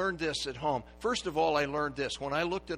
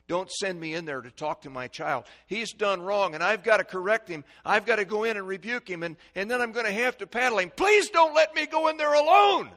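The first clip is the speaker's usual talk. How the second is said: pleading prayer; 8 semitones higher, 10 dB louder than usual. Retold or imitated.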